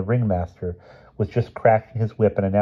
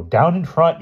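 high, moderately raised heckle; yelling; 9 semitones higher, 4 dB louder, slower than usual. A narrator's reading. Spectator heckling in an angry crowd, yelling. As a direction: call out from the stands. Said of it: "yelled somebody".

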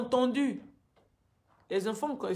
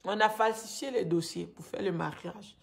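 raised, agitated pleading; upset; 2 semitones higher, 7 dB louder than usual. Real, not acted. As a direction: let the anger pour out louder. Angry account of forced marriage.

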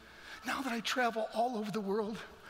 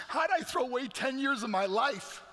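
raised, louder question to himself; retold despairing outburst; anguished self-reproach; 5 semitones higher, 4 dB louder than usual. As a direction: demand it of yourself in disbelief. Acted anguished thought at the bottom.

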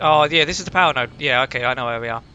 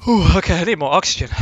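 stifling a yawn; 3 semitones higher, 6 dB louder than usual. Real, not acted. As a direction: talk while fighting off a yawn. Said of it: "God, I need to yawn".

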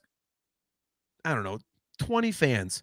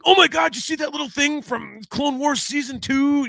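squealing high fanboy gasp; excited superfan; 11 semitones higher than usual. Retold or imitated. Mocking superfans to his co-host, high excited squeal. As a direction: gush like an overexcited superfan. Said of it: "idiots like you and me".

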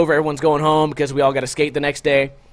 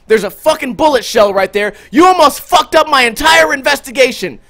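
louder, higher mock cop rant; imitating angry cop; 9 semitones higher, 6 dB louder than usual. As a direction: chew him out like a furious cop. Cop yelling at narrator.

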